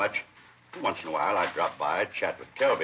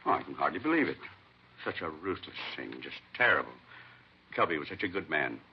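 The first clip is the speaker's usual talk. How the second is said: shocked grief; 6 semitones lower, 3 dB quieter than usual. Acted. Club owner hearing his manager is dead, stunned and sorrowful. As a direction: sink into sombre disbelief.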